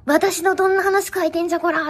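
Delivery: 声を張って凄む怒りの物真似; 怒った相手になりきって怒鳴る; 怒鳴り込みの真似. Acted. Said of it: "めっちゃ怒るよ". (怒鳴って問い詰める真似)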